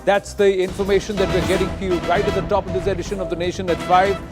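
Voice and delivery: brisk news anchor read; in a newsroom. Acted. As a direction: open the bulletin like a live TV anchor. Anchor opens live newscast.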